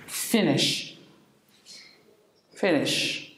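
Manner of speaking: "Finnish" said slowly and clearly, first syllable FIN; clear model pronunciation. Shown as a demonstration. Teacher modelling "Finnish" for the class, clear and slow. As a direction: spell out "Finnish" for learners. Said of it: "but it's pronounced the same".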